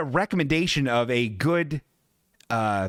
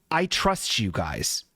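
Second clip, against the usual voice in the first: slow, lower, heartfelt trust; sincere trust; 4 semitones lower, slower than usual. Retold or imitated. Telling the mechanics he trusts them, slow sincere. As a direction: lay it on with earnest sincerity. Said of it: "And I said it just like that".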